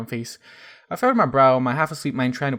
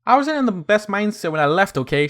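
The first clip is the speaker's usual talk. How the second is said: hissed; 7 semitones higher, 6 dB louder than usual. A narrator's reading. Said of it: "she hissed".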